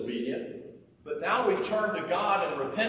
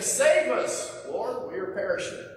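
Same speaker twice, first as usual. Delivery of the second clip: panicked plea; 4 semitones higher than usual. Retold or imitated. Disciples wake Jesus in storm.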